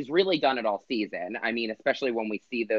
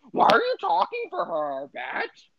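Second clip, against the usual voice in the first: high, sharp retort; snapping. Retold or imitated. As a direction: cut her off with a snap. Tamra snapping at Gina.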